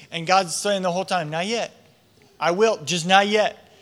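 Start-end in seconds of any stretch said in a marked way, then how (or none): 1.3-3.7 patient reassurance. Acted. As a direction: gently hold someone off. God voiced answering Saul's prayer.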